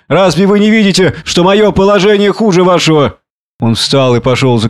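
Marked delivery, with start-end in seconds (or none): 0.1-3.2 high, indignant protest; exasperated outburst. A narrator's reading. Montgomery argues with Prendick over his plight, exasperated.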